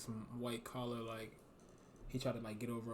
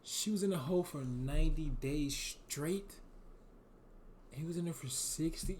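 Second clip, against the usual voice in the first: raised, astonished reaction; incredulous; 3 semitones higher than usual. Real, not acted. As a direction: react in stunned disbelief. Reacting in disbelief to hole time.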